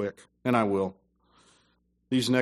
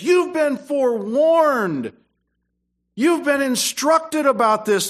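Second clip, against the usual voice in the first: loud, high, slow preaching voice; full-force preaching; 10 semitones higher, 5 dB louder than usual. Acted. Preacher warning church they were forewarned, loud and high. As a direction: thunder it at the congregation.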